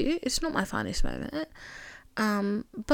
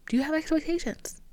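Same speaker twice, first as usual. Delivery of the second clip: pushy self-interrogation; 3 semitones higher than usual. Retold or imitated. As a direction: grill yourself like a tough friend. Self-interrogation pushing harder.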